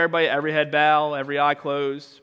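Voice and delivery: lightly imitated altar-call leader; low-key mock preacher's routine; altar-call mantra. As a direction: recite it like a well-worn mantra. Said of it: "It's like a, just a mantra".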